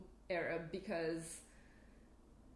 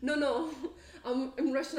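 laughing protest; 5 semitones higher, 5 dB louder than usual. Retold or imitated. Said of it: "I'm like".

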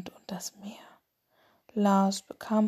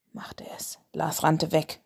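sleep story narrator. A narrator's reading. Whispered bedtime story podcast.

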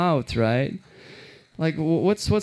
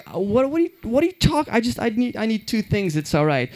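confused high voice; 8 semitones higher than usual. Retold or imitated. Confused self quoted.

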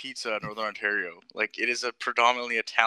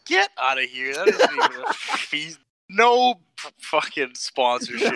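disbelieving outburst; 4 semitones higher, slower than usual. Real, not acted. Shocked at twenty million claim.

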